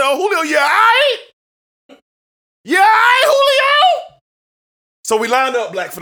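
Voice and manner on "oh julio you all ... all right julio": mock concern. Mock concern for injured player.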